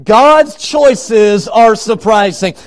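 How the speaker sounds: slow, stretched, forceful proclamation; emphatic preaching. Real, not acted. Preacher driving the point home to the congregation, emphatic. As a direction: proclaim it word by weighty word.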